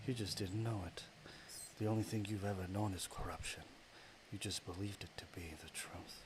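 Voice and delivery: partly whispered menacing goddess; a dark deity sneering in a hush. Acted. Goddess of darkness tells the hero he was always corrupt, hushed menace. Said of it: "I gotta do this voice again".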